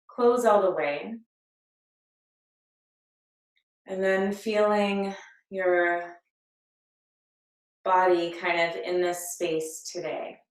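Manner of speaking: calm, unhurried meditation guide with long pauses; guided meditation. Acted. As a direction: lead them gently into breath and body awareness. Leads a breathing meditation.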